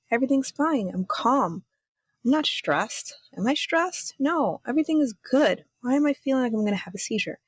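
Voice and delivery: high, rising nervous voice; anxious self-talk. Retold or imitated. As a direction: talk yourself down, failing. Retelling self-talk during a panic.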